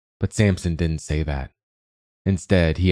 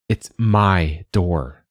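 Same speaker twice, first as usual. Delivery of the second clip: slow, cross and stubborn; 4 dB louder, much slower than usual. Acted. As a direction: draw it out crossly, digging in. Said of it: "she said crossly".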